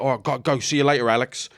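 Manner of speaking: a touch of matey Cockney; Cockney bodyguard. Retold or imitated. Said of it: "big Cockney bodyguard".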